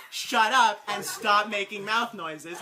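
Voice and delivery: slow, deliberate scolding through laughter; mock telling-off, not really loud; joking reprimand. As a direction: tell them off jokingly. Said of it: "except much louder and not jokingly".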